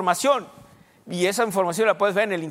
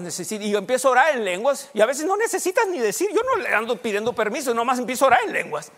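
rapid, tumbling explanation; quick-fire preaching, words running together; talking very fast; faster than usual. Real, not acted. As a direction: rush through it without stopping. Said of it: "Perdón que estoy hablando muy rápido".

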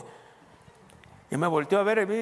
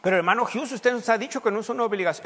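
higher, louder voiced objection and reply; mock objection; 8 semitones higher, 5 dB louder than usual. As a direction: play the doubter, then answer emphatically. Voices objecting congregant then answers. (objeción fingida y respuesta enfática, aguda y fuerte)

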